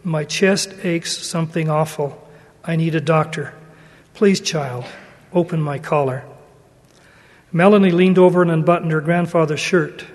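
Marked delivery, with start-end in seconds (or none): 0.0-6.2 slow, soft and lower; weak old man pleading softly. Acted. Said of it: "The old man said slowly".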